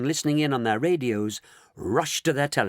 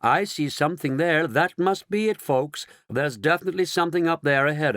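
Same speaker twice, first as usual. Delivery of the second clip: excited; 5 semitones higher than usual. Acted. Astronaut announcing sight to folks.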